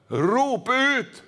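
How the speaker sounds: drawn-out preacher's call. Shown as a demonstration. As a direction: call it out to the congregation. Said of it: "Og da gjelder det å rope".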